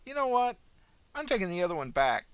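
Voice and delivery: put-on high, sweet old lady voice; old woman. A narrator's reading. Old pensioner cheerfully greeting the ambulance officer, high and sweet. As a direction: chirp it like a kindly granny.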